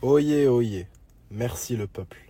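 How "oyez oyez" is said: hammed-up herald call; town crier. Proclaiming to his followers.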